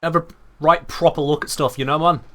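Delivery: lightly done chav British swagger; mock chav British. Streamer recalls his rejected April Fool's guide, mock chav British. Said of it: "in chavvy British style".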